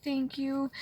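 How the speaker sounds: reliving a tearful whisper to her father; whispered thanks. Retold or imitated. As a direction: breathe the thank-yous as a private prayer. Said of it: "That's all I kept saying to myself".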